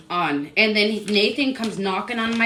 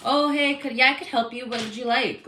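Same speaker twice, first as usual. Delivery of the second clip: mimicking a flustered worker; 5 semitones higher than usual.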